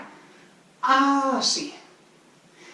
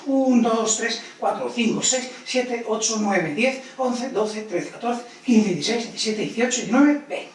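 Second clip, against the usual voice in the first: fast counting. Shown as a demonstration. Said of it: "¡Rápidas!".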